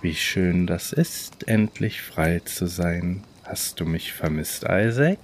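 scratchy clown voice. Acted. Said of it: "mit einer kratzigen Stimme".

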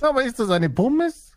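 French question lilt. Acted. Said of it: "Das klingt alles wie eine Frage".

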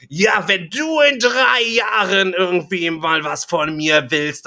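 high mock shout, easing off as it goes; imitated yelling. Woman rebuffing the man at the checkout, imitated yelling. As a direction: start on a drawn-out, indignant yell. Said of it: "wenn Sie mich noch weiter anschreien".

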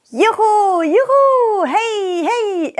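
high excited cheering; joyful whoops. Acted. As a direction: whoop with delight. Joyful play in grass.

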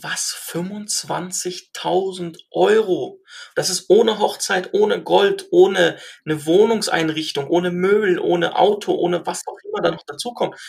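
mildly astonished retold reaction, drawn out. Father reacting to the price demanded per daughter, astonished. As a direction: imitate a taken-aback father, stretching out each item. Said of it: "wie sagt man, erstaunt".

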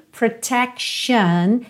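"protection" slowly, ending in "shun"; SH in TION. Shown as a demonstration. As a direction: stretch "protection" into pro-tec-shun. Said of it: "lembra desse T I O N".

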